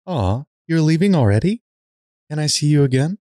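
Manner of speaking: disappointed. Acted.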